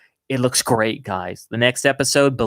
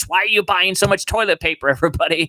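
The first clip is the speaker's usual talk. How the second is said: silly high voice; 5 semitones higher, faster than usual. Pretend.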